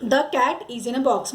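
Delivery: slow, word by word; drawn-out classroom reading; slow example read. Shown as a demonstration. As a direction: read it again slowly for the class. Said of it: "मतलब क्या".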